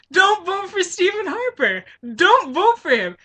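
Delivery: retold warning. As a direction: press the warning hard. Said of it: "this is why I said".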